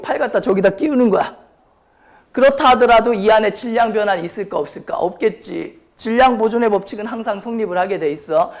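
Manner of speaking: ordinary delivery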